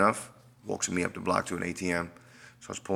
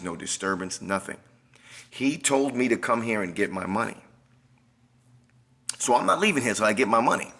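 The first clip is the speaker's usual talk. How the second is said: indignant protest. Retold or imitated. Man arguing with police to stay, voice rising. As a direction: push back hard at the officers.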